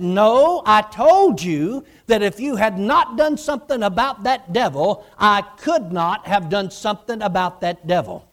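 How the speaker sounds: firm insistence. Retold or imitated. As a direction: insist and set him straight.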